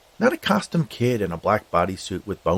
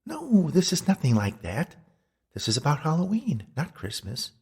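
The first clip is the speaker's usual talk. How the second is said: ghostly Beatrice; 6 semitones higher than usual. Acted. Ghost corrects his Christmas Carol comparison, high and indignant. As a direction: correct him firmly in a high voice.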